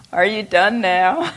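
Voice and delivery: teacher nagging the nurses, loud and teasing; impatient question. Retold or imitated. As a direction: call out teasingly, "done yet?". Teacher asking a third time.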